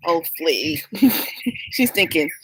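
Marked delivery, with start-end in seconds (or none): 0.1-0.8 sister's whisper. Retold or imitated. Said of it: "She's like".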